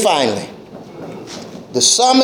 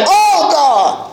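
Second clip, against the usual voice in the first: psalmist's crying plea; 3 semitones higher than usual. Acted. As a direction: cry out like a man in distress. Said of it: "it's almost like".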